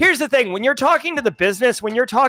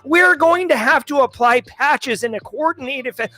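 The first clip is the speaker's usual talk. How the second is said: lightly voiced technical know-it-all; jargon-spouting techie; 3 semitones higher than usual. Cyber expert to a non-security coworker, jargon-heavy. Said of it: "if you go up to somebody who's not in cybersecurity and you're like".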